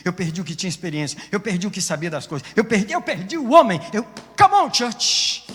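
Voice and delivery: preacher's rising climax; building to a shout. Real, not acted. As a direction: accelerate and climb into a shout.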